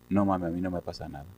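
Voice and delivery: soft, low, subdued answer; imitating a calmed-down daughter; calm reply. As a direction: answer quietly, as if all is well. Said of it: "llegó tranquila".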